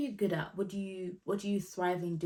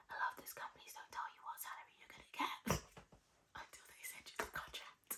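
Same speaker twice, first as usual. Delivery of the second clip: very soft, secretive whisper; 15 dB quieter than usual. Real, not acted. Telling viewers that companies hide the salary, whispering. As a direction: leak it in a hush, with a small laugh slipping in. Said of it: "I don't know why I'm whispering".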